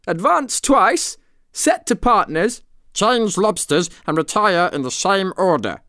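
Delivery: high, eager calling of steps; excited calling. A narrator's reading. Gryphon continuing the dance instructions, calling excitedly. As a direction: call out each move in a high pitch.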